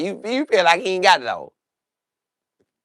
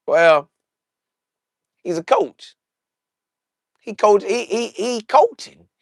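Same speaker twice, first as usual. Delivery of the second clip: mock diplomatic answer; 5 semitones higher than usual. Imitating Shedeur's calm answer.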